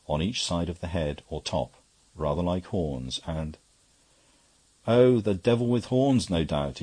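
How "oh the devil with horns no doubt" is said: loud, high-pitched outburst that drops at the end; jocular exclamation. A narrator's reading. Barrister cuts in on the priest's testimony, exclaiming jocularly. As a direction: burst out in triumphant mockery. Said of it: "ejaculated Cowdray".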